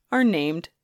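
whispered punchline, slowly. Real, not acted. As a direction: breathe the name as a secret. Playful aside to listeners.

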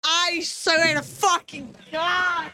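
slow, high, choked-up oath; real crying caught in the throat; trying not to cry. Real, not acted. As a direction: force the words out through tears. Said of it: "I'm trying not to cry".

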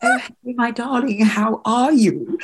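imitating a friend's put-on accent; mock accented greeting to a darling; Tanya. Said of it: "she's incredible at accents".

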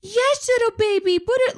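put-on very high baby-talk coo; exaggerated doting squeak; weird nurturing voice. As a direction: mimic someone cooing to an infant in a weird, high voice. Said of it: "talking in this weird voice".

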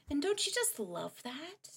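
mock gushing.

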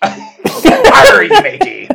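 loud hammed-up pirate, laughing. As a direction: give it a big laughing pirate "arr". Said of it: "reading it like a pirate".

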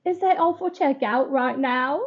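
shaky attempt at a British accent; British lady at the till, sounding half Australian. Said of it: "Do the British lady from the gas station".

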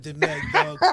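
lightly put-on French accent, drawn out; mock French accent. Retelling a man ordering wine, in mock French accent. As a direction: order like a would-be Frenchman, slowly. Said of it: "he tried to say it in French".

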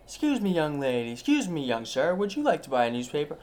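street vendor call. Retold or imitated. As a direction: call to passersby like a paper seller. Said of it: "just yells out".

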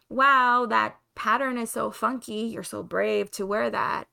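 sarcastic fake compliment, loud wow; backhanded praise, Wow punched loud. Mock compliment from critics.

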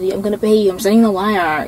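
light nasal Anna imitation; nasally voice. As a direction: put on a little nasal voice. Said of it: "in her little nasally voice".

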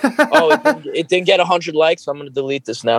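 high whiny mock creator voice; mock needy creator. Mocking clout chasers on a podcast, high needy whine. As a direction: mimic a needy influencer begging for likes.

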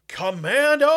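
bellowing. Retold or imitated. Commander leading the charge, bellowing. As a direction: roar it at the charge. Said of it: "bellows at the top of his lung".

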